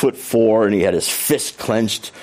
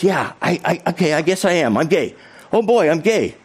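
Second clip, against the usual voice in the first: higher, hesitant voice growing sure; imitated teenager coming out; 7 semitones higher than usual. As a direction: play a teen's halting realization, pitched up. Teen's coming out, retold.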